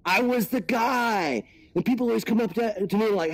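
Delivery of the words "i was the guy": higher put-on cartoon dog; dog character voice. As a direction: perform it as the talking dog, pitched up. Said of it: "you're the voice of that dog".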